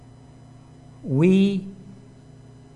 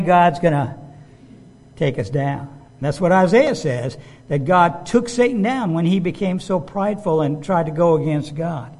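ordinary talk, nothing marked

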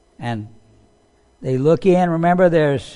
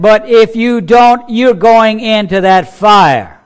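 slow, loud, higher threat; the king threatening the young men with fire; angry threat; 4 semitones higher, 6 dB louder, slower than usual. Retold or imitated. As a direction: lean hard on each word of the threat. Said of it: "He is so angry".

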